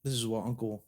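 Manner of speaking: lightly played New York mobster bragging as Uncle Danny; New York mafia accent. Telling a cohost about Uncle Danny in a light New York mafia accent. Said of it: "in a weird little accent".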